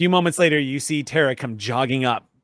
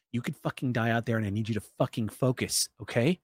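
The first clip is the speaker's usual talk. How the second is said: stern; 2 semitones lower, 7 dB quieter than usual. Acted. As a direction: hiss the warning close. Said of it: "pulls her up violently".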